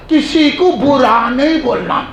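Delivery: slow, drawn-out mock piety; mocking quote. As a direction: stretch it out to ridicule the saying. Mockingly quotes a fashionable saying.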